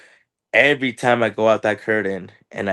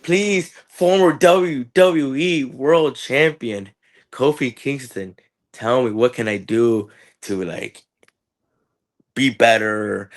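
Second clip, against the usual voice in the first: higher, hammed-up begging; mock pleading; 3 semitones higher, slower than usual. Wrestler pleading with Kofi Kingston, hammed-up begging. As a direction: beg like a starstruck fan.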